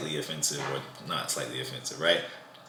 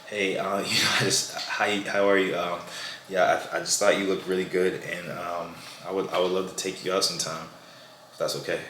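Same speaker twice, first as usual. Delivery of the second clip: timid and hesitant. Shown as a demonstration. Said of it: "I'm very cautious".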